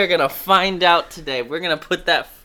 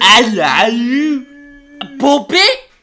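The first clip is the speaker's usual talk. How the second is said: put-on high, loud British accent; squeaky puppet Brit; 11 semitones higher, 12 dB louder, slower than usual. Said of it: "they all do that bit".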